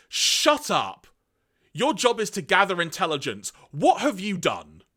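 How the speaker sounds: high, loud barked orders; angry yell. Acted. Galvatron snapping at Sound Blaster, loud angry yell. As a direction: put him in his place.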